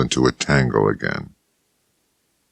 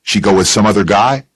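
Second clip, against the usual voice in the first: Bill Chess voice; 6 semitones higher, 4 dB louder, faster than usual. Acted.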